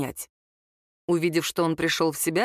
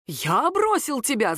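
mock yell; 6 semitones higher, slower than usual. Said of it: "заорал самозванец".

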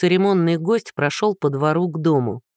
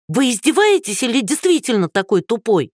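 put-on high, raised old woman's shout; 6 semitones higher than usual. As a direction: yell it at the rude neighbour. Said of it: "прокричала старушка".

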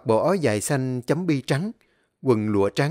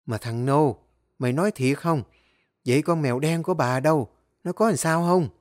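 worried. Acted. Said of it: "lo lắng sốt ruột hỏi".

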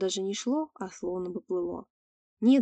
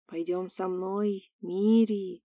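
gurgling alien voice; much slower than usual. Acted. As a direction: drag it out slow and hoarse. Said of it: "вновь прохрипело существо".

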